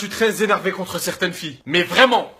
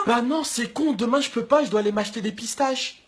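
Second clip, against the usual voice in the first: much softer, hesitant excuse voice; evasive girl; 7 dB quieter than usual. Retold or imitated. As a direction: dodge the date with a feeble excuse. Girl cancelling again.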